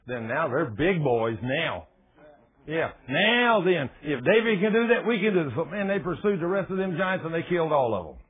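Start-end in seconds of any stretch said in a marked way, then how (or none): 2.7-5.5 emboldened cheer. Acted. Rest of Israelites emboldened.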